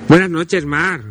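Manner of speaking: loud hearty call-out; deafening greeting. Real, not acted. Host greets the caller Mar, deafeningly loud. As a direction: call out the greeting too loudly. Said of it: "Me has dejado completamente sordo".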